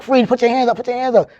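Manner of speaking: retold cop yelling at a suspect; police shout. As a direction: bark it like a cop storming in. Police rushing in with guns.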